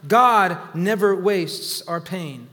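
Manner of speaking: each word slow and weighted, GOD stressed; slow emphatic declaration. Shown as a demonstration. Preacher to congregation, GOD stressed slow. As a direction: spell it out slowly so they can write it. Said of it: "write this down".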